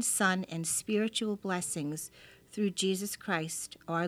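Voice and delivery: reverent prayer reading. Acted. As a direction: read it like a devout prayer. Reads a prayer aloud.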